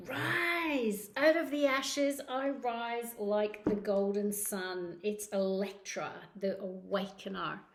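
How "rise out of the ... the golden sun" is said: dramatic affirmation. Acted. Tarot reader proclaims the card's words to Gemini viewers, slow and grand. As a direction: declaim it like a rising phoenix.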